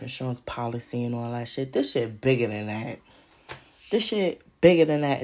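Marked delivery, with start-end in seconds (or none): 3.9-5.2 repeated louder, pressing the point home; louder insistence. Real, not acted. Insisting to viewers the scheme is bigger, louder. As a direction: hit it harder the second time.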